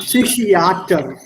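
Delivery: Psychiater said slowly, see-shee-ah-ter; teacher modelling slowly; careful model word. Shown as a demonstration. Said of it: "read out every single letter".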